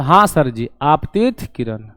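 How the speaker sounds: lightly voiced pupil, low and soft; a hint of a student's low, quiet response; pupils' reply. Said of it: "बोले".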